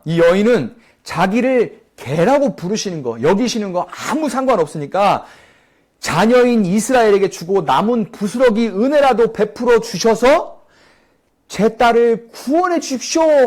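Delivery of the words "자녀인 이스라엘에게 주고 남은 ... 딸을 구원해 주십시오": pleading woman. Pretend. Woman begs for her daughter.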